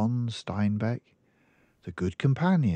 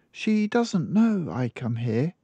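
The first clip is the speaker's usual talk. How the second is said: put-on much higher little girl voice; child explaining her mother's habits; small girl; 9 semitones higher than usual. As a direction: speak like a matter-of-fact little girl. Girl confides secret.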